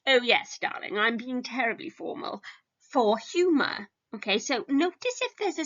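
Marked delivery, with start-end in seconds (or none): 0.1-2.4 posh formal voice. Shown as a demonstration. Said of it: "I switch it to".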